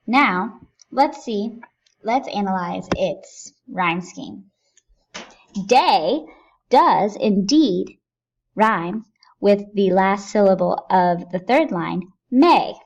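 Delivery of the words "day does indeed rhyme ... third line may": emphatic. Shown as a demonstration. Teacher pointing out rhyme.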